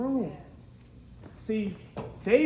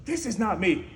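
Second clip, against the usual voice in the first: louder, higher pushing the armor away; firm refusal; 5 semitones higher, 4 dB louder than usual. Retold or imitated. David turning down Saul's armor, firm and loud. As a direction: refuse it with conviction. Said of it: "David's like".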